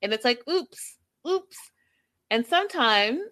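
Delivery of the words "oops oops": high, mock-ditzy oops; playful high oops. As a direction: squeak it out like a clueless butt dialer. Mimicking a butt dial.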